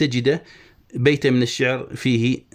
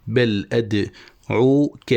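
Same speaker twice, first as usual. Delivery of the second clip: very slow, syllable by syllable; scanning a foot; much slower than usual. Shown as a demonstration. Teacher marking where the foot ends, slow scansion. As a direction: break "بل أدعوك" into drawn-out pieces. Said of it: "وهنا تنتهي التفعيلة".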